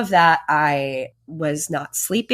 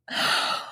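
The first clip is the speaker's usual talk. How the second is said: soft gasp; 6 dB quieter than usual. Retold or imitated. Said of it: "I was just like".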